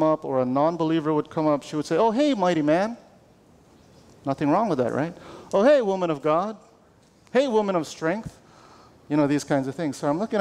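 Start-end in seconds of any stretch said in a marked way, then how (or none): 2.0-3.0 higher, lightly imitated churchy hello; Christianese greeting. Coworker greeting a non-believer, mock Christianese. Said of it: "she would speak Christianese". 5.5-8.4 lightly imitated churchy hello, pitch lifted; Christianese greeting. Coworker greeting customers, mock Christianese. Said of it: "she would speak Christianese".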